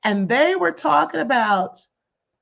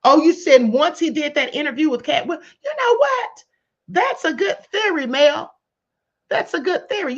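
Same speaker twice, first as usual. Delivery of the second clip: excited realisation; 5 semitones higher, 4 dB louder than usual. Real, not acted. Sudden realisation at a chat comment.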